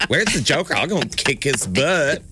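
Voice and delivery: lightly voiced folksy superhero parody; Batman. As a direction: reprise a casual y'all hero, slightly hammed-up. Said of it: "still thinking about your Batman".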